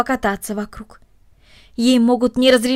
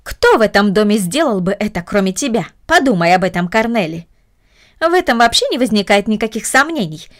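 stern aunt; 3 dB louder than usual. Acted. Aunt accuses Cornelie.

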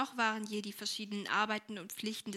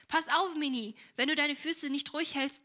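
higher, louder playful warning; mock threat; 5 semitones higher, 4 dB louder than usual. A narrator's reading. Helene threatens wriggling little Minnie, mock stern. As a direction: warn the little one with mock severity.

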